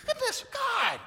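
very high, disbelieving squeal at God; incredulous protest. Retold or imitated. Pastor asking God if He heard that sermon, high and incredulous. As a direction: squeak out the outrage to heaven. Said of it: "I was like".

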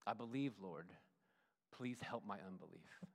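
humble plea. Retold or imitated. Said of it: "what the dad says back".

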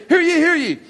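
high, ringing herald's call; town crier. Retold or imitated. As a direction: proclaim it to the town square. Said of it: "they would go out and they would say".

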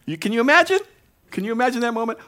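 high, loud wonder; amazed. Real, not acted. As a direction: marvel at it out loud. Preacher marveling at the miracle.

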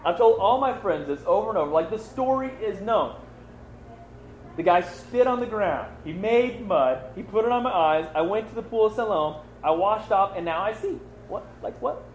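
fed up that he must tell it again; exasperated retelling. Retold or imitated. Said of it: "The guy's like".

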